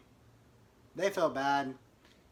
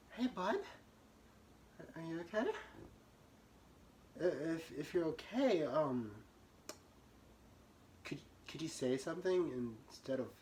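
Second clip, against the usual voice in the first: mock calm. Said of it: "in a calm manner".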